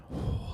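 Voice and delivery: soft, long audible inhale and exhale; deep breath. Shown as a demonstration. Leading the audience in a soft breathing exhale. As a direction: breathe out slowly for them. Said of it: "let's take a deep breath".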